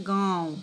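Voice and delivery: गाँव with its vowel through mouth and nose; nasalised vowel demo. Shown as a demonstration. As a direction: let the vowel in गाँव resonate in the nose too. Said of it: "इसका उच्चारण मुख और नाक दोनों से होता है".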